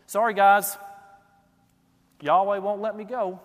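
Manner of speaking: frustrated. Retold or imitated. Balaam excusing himself to the princes, frustrated. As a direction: blame God with exasperation. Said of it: "You can almost hear the frustration".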